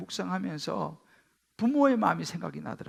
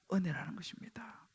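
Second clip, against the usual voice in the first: whisper; 3 semitones lower, 12 dB quieter than usual. Real, not acted. Preaching whisper after build.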